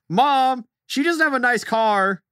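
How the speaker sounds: high-pitched imitation of a kid calling out; mock an indignant child, pitched well up; tattling kid. Kid calls over to his mom about her car, mock tattling.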